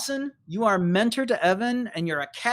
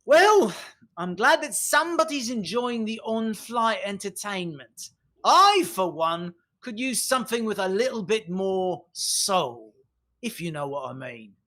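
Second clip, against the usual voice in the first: real loud; 2 semitones higher than usual. Acted. Trilby turns around for others to overhear, real loud. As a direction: announce it pointedly for the room to overhear. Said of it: "she says this real loud".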